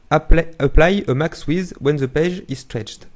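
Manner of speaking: slow, deliberate English with a French accent. Real, not acted. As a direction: read the English out slowly in your French accent. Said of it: "Appréciez mon accent anglais".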